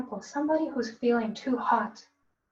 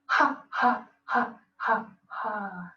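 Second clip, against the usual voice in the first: demo laugh; much slower than usual. Shown as a demonstration. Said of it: "Exhale like you're laughing".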